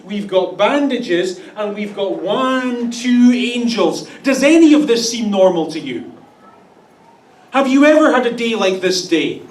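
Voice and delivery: hammed-up sarcastic explanation; sarcastic angels. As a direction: list the clues with mock patience. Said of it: "they're basically saying".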